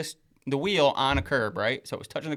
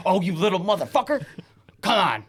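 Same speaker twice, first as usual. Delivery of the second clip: higher, louder mock cursing; retold dad's anger; 6 semitones higher, 6 dB louder than usual. Dad answering his son's excuse, acted exasperated anger. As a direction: imitate a dad losing his temper at his son.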